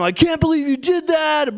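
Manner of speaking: retold yelling. To the partner who wronged her, a retold half-yell. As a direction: replay the outburst as a half-yell. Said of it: "kinda yelling at him".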